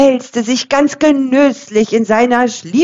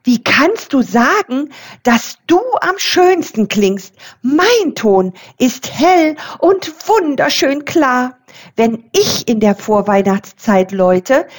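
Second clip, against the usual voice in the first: much higher, excited little bell; youngest bell, excited; 7 semitones higher than usual. A narrator's reading. The youngest bell argues with the others, high and excited. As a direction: ring out Hoffnung high and bright like a tiny bell. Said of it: "kleinste und jüngste ... aufgeregt".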